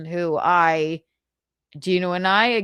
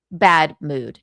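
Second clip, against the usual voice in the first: Michaeline, bad mood; 4 semitones lower, 5 dB louder than usual. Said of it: "Michaeline in a bad mood".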